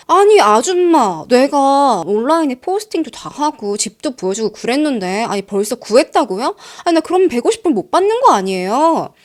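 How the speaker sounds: a tenant flaring up in annoyance; irritated outburst. Retold or imitated. Tenant snapping at landlady over lost fee, irritated. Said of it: "갑자기 짜증이 팍 내면서".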